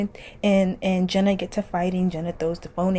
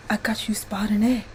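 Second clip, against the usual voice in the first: mock whisper. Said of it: "Jason talking about some".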